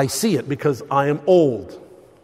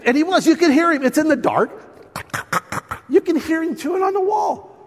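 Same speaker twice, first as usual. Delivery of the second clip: laughing; 11 semitones higher than usual. Real, not acted. Laughing at the mouse memory.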